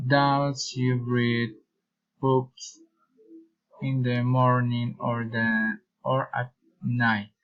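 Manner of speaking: careful either-or question dropping on "night"; rise then fall. Shown as a demonstration. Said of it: "reason and following intonation".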